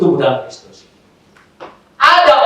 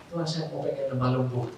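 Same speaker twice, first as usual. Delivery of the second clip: much softer, lower pleading prayer; soft retold prayer; 7 semitones lower, 16 dB quieter than usual. Preacher recalling praying alone in his room, soft and low. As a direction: murmur the plea to God quietly. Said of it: "saya berdoa lagi".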